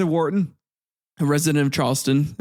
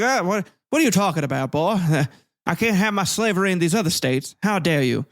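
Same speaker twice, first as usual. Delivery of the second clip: lightly voiced indignant Southern planter, a bit higher; mock Southern slaveholder; 3 semitones higher than usual. Southern states answering Lincoln, a hint of an indignant planter. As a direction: huff like an offended plantation owner, lightly done. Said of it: "They're like".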